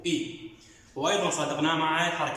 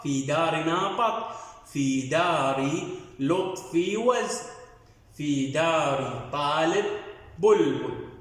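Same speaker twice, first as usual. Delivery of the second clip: slow, sing-song reading for pupils; reading aloud to children; much slower than usual. Shown as a demonstration. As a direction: read it out like a primer for first graders. Teacher rereads the passage. (قراءة إنشادية بطيئة للأطفال)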